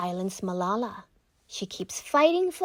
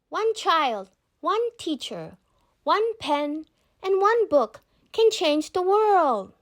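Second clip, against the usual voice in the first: higher, louder, slow ringing declaration; inspiring climax; 7 semitones higher, 4 dB louder than usual. A narrator's reading. Malala's famous words to the world, ringing slow climax. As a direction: build to a ringing finish.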